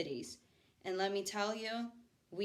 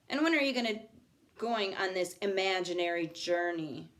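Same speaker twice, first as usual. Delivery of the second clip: mocking retort; 3 dB louder than usual. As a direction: scoff at the idea loudly. Rowdy mocks the transfer.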